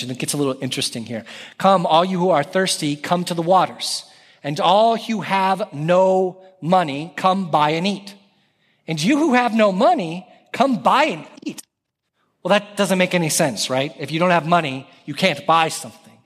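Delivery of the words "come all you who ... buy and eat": mildly imploring scripture reading; a touch of pleading, pitch lifting toward the end. Acted. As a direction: read the verse as an open invitation. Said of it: "So he is pleading. Tone starts to change".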